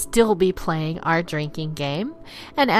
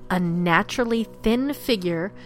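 dramatic campfire storyteller; spooky story narration; 3 semitones higher than usual. A narrator's reading. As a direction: tell it like a ghost story.

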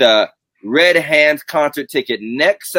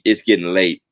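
lower, weary church mother sigh; old church mother; 7 semitones lower than usual. Acted. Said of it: "like an old church mother".

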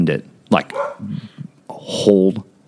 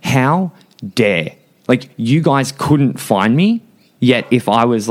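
raised pitch, slow outraged emphasis; indignant anger; 4 semitones higher, slower than usual. Retold or imitated. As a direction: retell the outrage with drawn-out, higher words. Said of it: "I was ready to fuck someone up".

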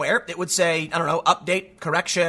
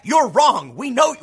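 smug retort; 5 semitones higher, 4 dB louder, slower than usual. Pretend. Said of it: "they tweet back".

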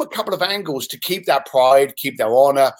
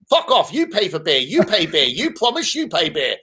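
mock Asian accent. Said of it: "I apologize if I'm offending anyone with the accent".

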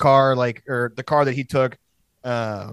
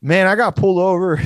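retold shout; 5 semitones higher, 5 dB louder than usual. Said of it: "And he's like".

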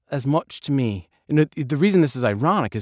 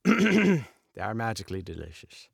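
lightly put-on cereal-mascot Irish accent; Lucky Charms; 5 semitones lower than usual. Actor joking about a drifting accent, mock Irish mascot. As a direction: do a slightly lower leprechaun-advert Irish accent. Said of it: "beginning to sound like Lucky Charms".

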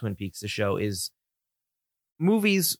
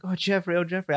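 mock Sandy; 8 semitones higher than usual. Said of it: "she's like".

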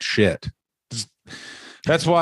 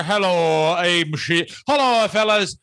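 slow, higher put-on Irish wrestler voice; mock Sheamus; 3 semitones higher than usual. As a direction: ham up a goofy wrestler greeting. Doing a Sheamus voice.

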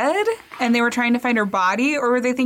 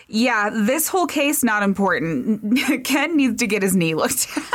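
laughing mock spirits. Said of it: "the spirits are like".

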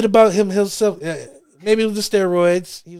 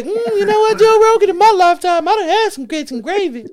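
much higher put-on old-time grinning voice; old-timey minstrel voice; 13 semitones higher than usual. Friend imitating an old-timey grits lover to Joe Rogan, high and hammed. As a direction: ham up an old-time servant's grin. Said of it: "I was about to say".

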